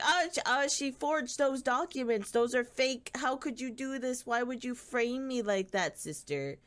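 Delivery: high, flustered mock protest; villain denying everything in a high whine; whiny fake heiress. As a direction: play the wronged sister, overacting. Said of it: "the fake heiress is like".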